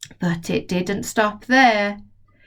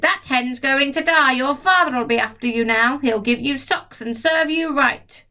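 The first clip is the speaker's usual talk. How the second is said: gloating grandma; 5 semitones higher than usual. Acted. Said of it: "Grandma shouted".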